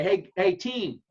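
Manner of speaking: loud, slow call to the team. Retold or imitated. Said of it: "blow the whistle and say".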